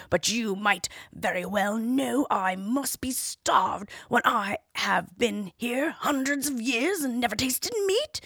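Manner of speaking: starved ancient dragon reasoning. Acted. Dragon speaks in tale.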